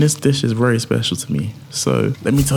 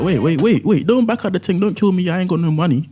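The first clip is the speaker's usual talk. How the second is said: mock panic; 8 semitones higher than usual. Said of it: "So I was like".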